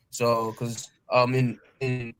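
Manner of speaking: glitchy robotic call audio. Real, not acted. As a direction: sounds like a robot on a bad line. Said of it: "you sound like a robotic".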